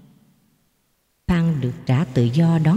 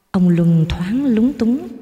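ordinary delivery, nothing marked

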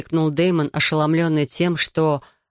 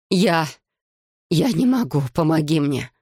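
pleading. A narrator's reading. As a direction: beg for help as a wounded woman. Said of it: "взмолилась она". (слабая, прерывистая мольба)

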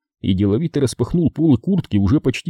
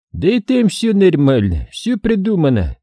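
reassuring; 8 semitones higher than usual. A narrator's reading. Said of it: "успокоил Сулейман".

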